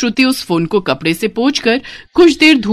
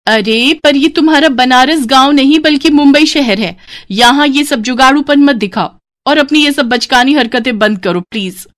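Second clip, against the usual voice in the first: snooty sister-in-law; 5 semitones higher than usual. Acted. Sister-in-law tells brides this is Mumbai, snooty and high. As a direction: put them in their place.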